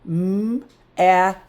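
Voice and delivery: "M, at" broken into first sound and rhyme. Shown as a demonstration. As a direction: separate "M" from "at". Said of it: "but it's there".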